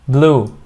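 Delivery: "blue" met een lange oe-klank; long oo. Shown as a demonstration. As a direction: rek de oe in "blue". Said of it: "It's a long vowel".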